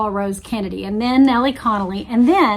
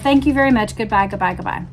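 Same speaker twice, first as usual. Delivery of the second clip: fed up; 2 semitones lower, faster than usual. Retold or imitated. Rose cutting off Lady Bird, a light imitation of a fed-up goodbye. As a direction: play it like she's done with this call and wants off the phone. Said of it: "I've had enough".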